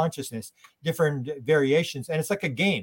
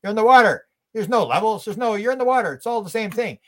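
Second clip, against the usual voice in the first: fish voice; 7 semitones higher, 5 dB louder than usual. Retold or imitated. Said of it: "And the fish goes".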